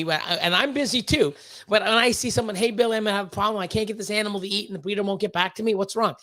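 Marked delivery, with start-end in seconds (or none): 2.5-6.1 fast, rushed, lightly voiced worried buyer; worried customer. New snake buyer begging Billy for help, rushed and anxious. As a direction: rattle it off like a panicked newbie.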